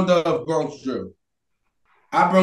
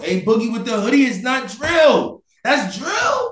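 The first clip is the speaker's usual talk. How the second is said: shouting; 4 semitones higher than usual. Real, not acted. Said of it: "heated argument".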